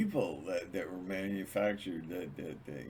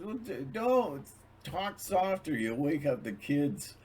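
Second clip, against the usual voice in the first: hushing wife; 6 semitones higher than usual. Retold or imitated.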